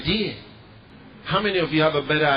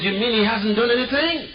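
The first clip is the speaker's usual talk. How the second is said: voiced story dialogue; 8 semitones higher, 3 dB louder than usual. Pastor and man voiced in story.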